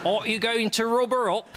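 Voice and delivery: high, loud woman's voice; bossy woman. Acted. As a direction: she teases him impatiently. Voicing the woman in story.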